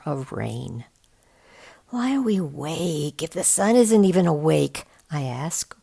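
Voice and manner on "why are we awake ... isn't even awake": put-on whiny, just woken kid; sleepy groan. A narrator's reading. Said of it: "groaning and pulling the sleeping bag".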